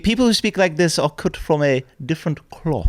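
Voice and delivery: mild upper-crust English accent; posh accent. Shown as a demonstration. Posh man explaining his superior breeding, posh accent. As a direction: speak as if cut from finer cloth, posh accent. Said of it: "any posh accent generally throws in".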